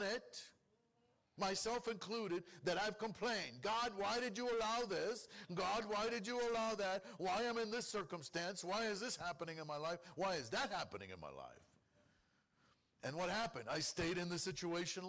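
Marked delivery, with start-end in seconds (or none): 3.6-11.6 complaining to God. Retold or imitated. A believer grumbling to God, mock complaining voice. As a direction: moan at God as if fed up.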